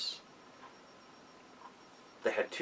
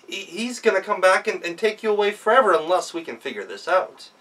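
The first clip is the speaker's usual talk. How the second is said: alarmed wife; 7 semitones higher, 4 dB louder than usual. Acted. Gretel alarmed, warning husband.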